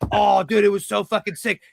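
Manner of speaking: mock a clueless wrestler gushing over a move; gushing bro impression. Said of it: "FaceTime each other and be like".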